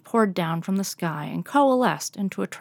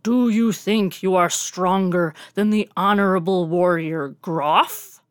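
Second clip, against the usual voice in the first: buzzing bee swarm voice; 5 dB louder than usual. Acted. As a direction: challenge the warrior like a swarm of bees. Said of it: "the bee tornado buzzed".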